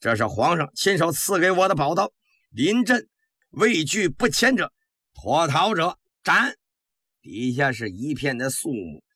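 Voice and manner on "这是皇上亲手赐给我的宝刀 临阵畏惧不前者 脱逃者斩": commander's grave threat, pitched up; stern warning. Acted. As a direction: warn the troops sternly, slowing on the final sentence. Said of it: "沉着脸".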